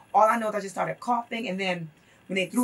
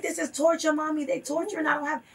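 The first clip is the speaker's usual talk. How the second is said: retold pleading; 6 semitones higher than usual. Jailed son pleads to his mother.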